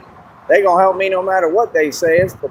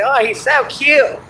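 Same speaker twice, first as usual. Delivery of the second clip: mock swooning women; 7 semitones higher, slower than usual. Women's reaction quoted.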